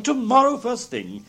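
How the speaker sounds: high, emphatic promise; eager cry. A narrator's reading. Old gentleman promising Scrooge a visit, eagerly. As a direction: pitch it high and stretch it keenly. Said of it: "cried the old gentleman".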